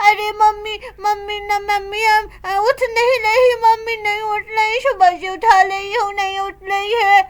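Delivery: put-on child's voice, a touch of crying; small girl sobbing that mummy won't get up; tearful little girl. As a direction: daughter weeping over her mother. Child tells that mother won't wake.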